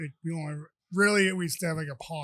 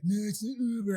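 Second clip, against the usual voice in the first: lightly imitated drunk insistence, pitched up; mock drunk woman; 4 semitones higher, 3 dB louder than usual. Drunk woman arguing over the ride, mock slurred voice. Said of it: "She talked worse than I did".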